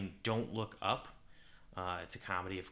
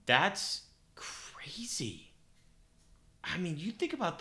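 whispering; 8 semitones higher, slower than usual. Real, not acted. Amazed aside.

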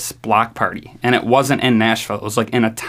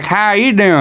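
hammed-up girl voice, much higher; 10 semitones higher, 3 dB louder than usual. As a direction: pitch way up for the girl's greeting. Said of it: "she's like".

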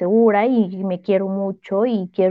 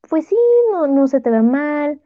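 nice tone; 5 semitones higher than usual. Retold or imitated. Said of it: "en un tono bonito".

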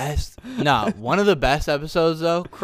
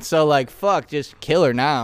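put-on Australian accent. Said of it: "You say that joke in an Australian accent".

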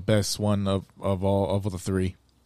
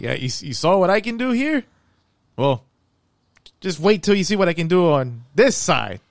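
mock boasting, higher and louder; cocky director voice; 8 semitones higher, 5 dB louder than usual. James Gunn voiced as a cocky boast to fans. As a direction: brag like you own the place. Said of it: "pretty much him saying".

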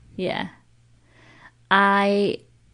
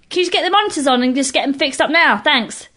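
fast, higher, no-nonsense demand; blunt request; 5 semitones higher than usual. Acted. Person telling the crew to fix monitors, brisk and unapologetic. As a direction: fire it off and be done. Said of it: "people that are like".

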